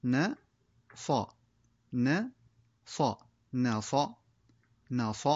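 "ن، ص" said one letter at a time, then joined as "نص"; spelling the word out letter by letter. Shown as a demonstration. Teacher showing pupils how to spell out a word, letter by letter. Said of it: "تكون قراءة الكلمات هكذا".

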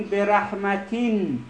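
"رحمتین" drawn out slowly to a final n; slow teacher's model of "رحمتین"; demonstrated reading. Shown as a demonstration. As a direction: sound out "رحمتین" with a long -tin. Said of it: "واژه های چی رو نگاه کنین".

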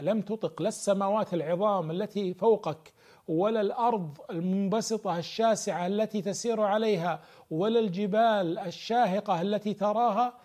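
rising fervor. Acted. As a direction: preach it with growing force. Building emphatic preaching.

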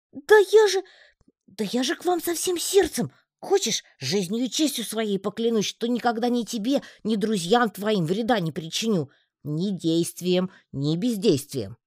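выше, пылкий тонкий голосок; поклянись от всего сердца тонко; горячая клятва паучка. A narrator's reading. Паучок горячо клянётся в верности. (паучок горячо уверяет героинь: пылкий тонкий голосок)

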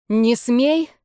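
stern no-nonsense warning, slowly; strict command. Acted. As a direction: forbid it like a stern older sister. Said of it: "строго заявила я".

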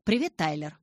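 friendly phone greeting with a veiled edge; mild, controlled friendliness; quite friendly. A narrator's reading. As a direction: open amiably, lightly voiced. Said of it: "начал он вполне дружелюбно".

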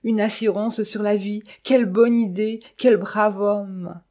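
high-pitched, effusive tearful praise; acted wailing that stretches out to the end; sobbing gratitude. A narrator's reading. Widow believing herself the beneficiary, sobbing effusively. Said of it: "sanglota-t-elle tout à coup".

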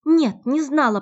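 high, loud, blurted denial; almost scream the denial; Natalya, grabbed by the arm, nearly shouts her denial. Acted. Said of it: "почти что выкрикнула Климова".

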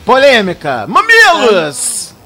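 loud drawn-out showman call; slow dramatic exclamation; mock dramatic announcement. Announcing a hot topic.

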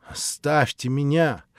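furious shout, rising to a yell. A narrator's reading. Natasha shouting at the prince to leave. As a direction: throw him out at the top of her voice. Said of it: "закричала она".

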